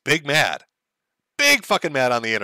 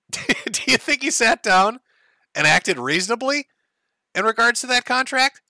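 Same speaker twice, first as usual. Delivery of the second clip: sarcastic; 9 semitones higher than usual. Real, not acted. Sarcastic rhetorical question to chat.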